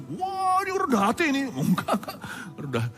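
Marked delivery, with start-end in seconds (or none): 0.0-1.5 high gushing praise, half laughing; lightly voiced admirer; mock flatterer. Preacher imitating praise of his humility.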